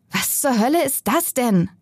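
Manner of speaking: talking around a sponge; words muffled by a sponge in the mouth; mouth full. Acted. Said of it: "mit dem Schwamm im Mund".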